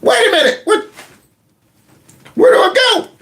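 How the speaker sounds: put-on high, lost old man voice; mocking Joe left sitting with no one to guide him. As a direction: sound stranded and confused. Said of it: "Joe's gonna be sitting out there like".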